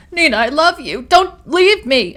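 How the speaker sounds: cling to her with the words; begging. A narrator's reading. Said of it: "Amanda begs".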